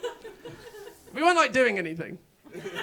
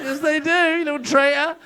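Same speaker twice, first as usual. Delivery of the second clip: put-on louder sing-song baby-talk; dog voice; 4 semitones higher, 5 dB louder than usual. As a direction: coo an insult at the dog. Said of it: "So I was still doing the voice".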